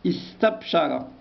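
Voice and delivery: استبشر drawn out slowly, each syllable clear. Shown as a demonstration. Teacher stretches the verb so pupils hear it. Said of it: "هو فعل".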